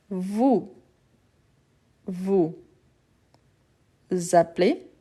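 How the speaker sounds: appelez said with a closed a-pe-lez; closed sound demo. Shown as a demonstration. Teacher modelling the closed sounds of appelez. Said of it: "Les sons fermés".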